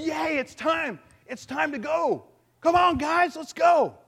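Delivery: high, loud rallying shout; excited cheer. Retold or imitated. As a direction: whoop like a crowd setting off. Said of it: "They gotta be excited".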